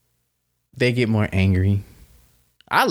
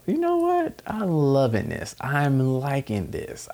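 delighted realization; 3 semitones higher than usual. Retold or imitated. Inner voice, realizing joy.

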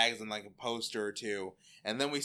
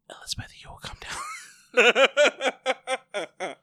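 slow, drawn-out shriek, much higher and louder; mother's yell; 14 dB louder, much slower than usual. Acted. Mother yelling upstairs at Betty, slow shrieking command. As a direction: burst from whisper into a laughing scream. Mother suddenly yells at daughter.

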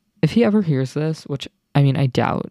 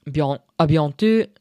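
French accent. Shown as a demonstration. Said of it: "I learned some random words like".

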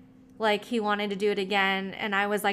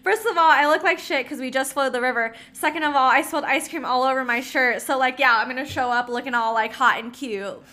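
flustered excuses; 4 semitones higher, 3 dB louder than usual. Retold or imitated. Retelling her flustered excuses.

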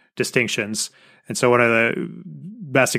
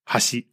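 "hashi" level, with no pitch jump; flat pitch accent; 4 dB quieter than usual. Shown as a demonstration. Showing Japanese pitch accent to listeners, flat "hashi". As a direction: keep both syllables of "hashi" even. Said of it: "or flat".

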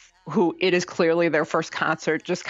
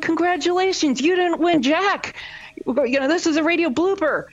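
mock DJ gloat; 11 semitones higher, 4 dB louder than usual. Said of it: "They're like".

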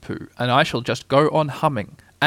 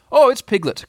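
raised, louder, delighted recognition; eager cry; 10 semitones higher, 5 dB louder than usual. A narrator's reading. Pooh recognising Piglet's voice, eager. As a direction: cry out eagerly with lifted pitch. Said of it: "cried Pooh eagerly".

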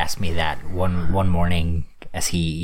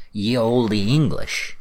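mock olde English; 4 semitones higher, much slower than usual. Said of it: "joke archaic".

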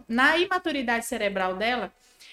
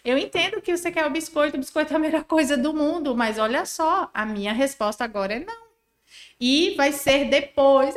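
kind but firm; 4 semitones higher than usual. Shown as a demonstration. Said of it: "o que eu chamo de acolhimento".

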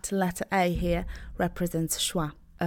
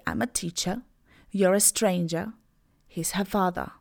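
British English. Shown as a demonstration. Teacher models British pronunciation for learners, no final R. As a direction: drop the final R like a Londoner in "teacher" and "father". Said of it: "So in British, I would say".

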